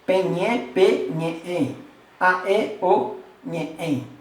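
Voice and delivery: loud drill recitation, syllable by syllable; recited conjugation. Shown as a demonstration. Teacher drills Tupi verb forms aloud for the class. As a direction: chant the forms for the class to copy. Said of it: "Vai falando comigo".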